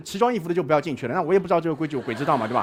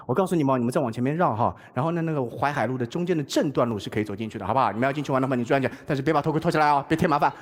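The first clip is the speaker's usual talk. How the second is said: kindly policeman; 7 semitones lower than usual. Retold or imitated. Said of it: "他说".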